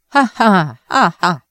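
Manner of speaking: spoken-out dry "ha ha ha ha"; a forced, mirthless laugh, voiced syllable by syllable. A narrator's reading. Monk breaks off his taunt into a dry laugh. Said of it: "只是干笑".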